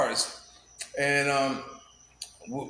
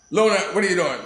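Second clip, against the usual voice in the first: louder real aside to someone nearby; calling out; 3 semitones higher, 6 dB louder, faster than usual. Real, not acted. Speaker interrupts the story to question Lona, calling out. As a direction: break off and call over.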